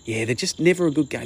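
lightly voiced dad, stressing never; imitating dad. Son imitating his dad's dismissive football argument, lightly voiced. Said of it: "make the argument of".

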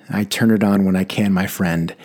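put-on light Italian accent, chuckling; a warm Italian-waiter lilt. Irish passenger answering the driver, in a mild Italian accent. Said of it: "in an Italian accent".

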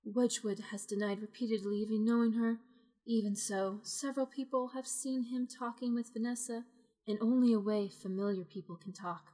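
even storyteller read; story narration. A narrator's reading. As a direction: narrate it like a gossip column. Game master reading scene.

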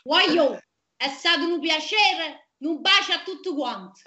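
repeating in light Neapolitan; Neapolitan accent. Shown as a demonstration. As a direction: speak it like a Neapolitan. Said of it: "ti dico una frase che devi dire e la dici".

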